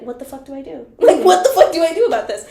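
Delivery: panicked question through laughter; laughing panic. Retold or imitated. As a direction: laugh while asking for help. Laughing panic over the hole.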